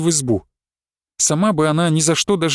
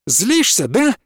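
taunting; 5 semitones higher, much slower than usual. A narrator's reading. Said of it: "закричала Александра".

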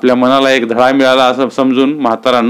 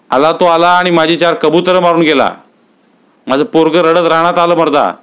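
raised, argumentative village man's voice; heated villager quarrel; 5 semitones higher than usual. Acted. Villager snapping back at Mahada in a mild heated tone. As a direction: argue back hotly, lightly voiced.

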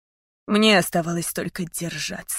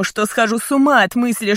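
plain reading voice

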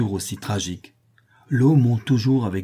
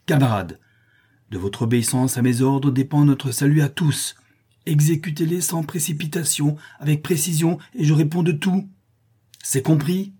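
high, loud commands to the men; rallying shout; 6 semitones higher, 3 dB louder than usual. A narrator's reading. Harry takes command of the men, calling out firmly and loudly. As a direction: take command and steady them. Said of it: "il s'écrie".

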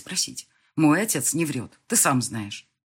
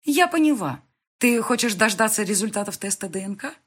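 louder and higher, smiling triumph; wife's triumphant smiling guess; triumphant realization; 6 semitones higher, 5 dB louder than usual. A narrator's reading. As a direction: catch him out with a smile. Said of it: "я улыбнулась сама себе".

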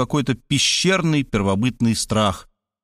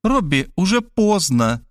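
hissing mother; 6 semitones higher than usual. A narrator's reading. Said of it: "зашипела мать".

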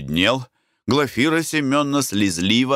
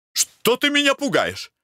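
frightened husband, voice shooting far higher; panicked cry; 12 semitones higher, slower than usual. A narrator's reading. Husband cries to his wife in despair, panicked and very high. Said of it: "закричал муж".

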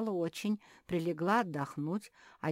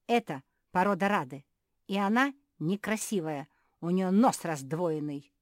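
angry; 3 semitones higher, 9 dB louder than usual. Acted. Beatrice keeps ranting angrily.

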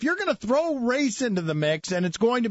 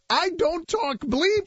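slow, higher-pitched quoted line; mock-dramatic quote; 6 semitones higher, slower than usual. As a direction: draw it out with relish, pitched up. Quotes the scripted opening line.

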